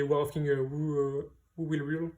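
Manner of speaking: English title with a French accent. Real, not acted. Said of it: "excusez-moi pour mon accent anglais". (anglais avec l'accent français)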